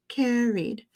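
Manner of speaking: "carried" with a long, clear ee before the d. Shown as a demonstration. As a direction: stretch "carried" as CARE-eed. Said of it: "you still have a long E sound".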